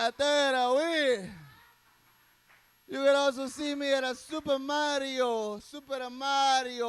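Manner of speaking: loud announcer-like shoutout; hype shoutout. Acted. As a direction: plug the shows like a hype man.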